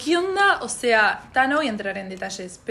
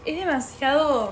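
drawn out exasperation; 4 semitones higher, slower than usual. Real, not acted. Drawn out complaint.

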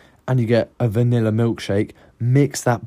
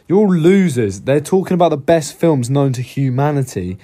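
loud, raised jokey rant at listeners; loud playful rant at the audience; mock rant; 4 semitones higher, 5 dB louder than usual. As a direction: tell off the audience in fun. Ranting at audience jokingly.

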